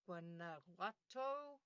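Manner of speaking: "Guanajuato" sounded out slowly, syllable by syllable; careful Spanish pronunciation. Shown as a demonstration. Host slowly sounding out a Mexican place name, careful and deliberate. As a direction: take your time over "Guanajuato". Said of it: "I'm going to try hard to correctly pronounce".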